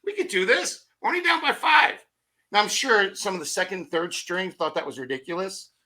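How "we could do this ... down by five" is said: high-pitched, excited cheer; giddy team rallying. Retold or imitated. Player rallying the giggling team after the comeback call, excited. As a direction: shout it like a fired-up, giggling team. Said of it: "They start giggling. I'm like".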